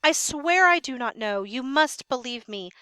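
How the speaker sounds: a hint of frightened pleading; scared sentry. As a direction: beg the king to believe you. Notice how scared the sentry is.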